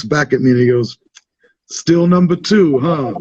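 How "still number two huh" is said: slow, higher-pitched teasing dig; trolling jab. Retold or imitated. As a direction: retell a drawn-out needling taunt. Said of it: "he trolls me so fucking hard".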